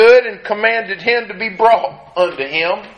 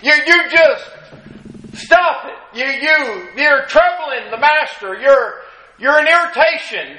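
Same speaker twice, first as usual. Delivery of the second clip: higher, pressing hush of a scolding crowd; rebuking crowd; 5 semitones higher than usual. Retold or imitated. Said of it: "they were telling him to be quiet".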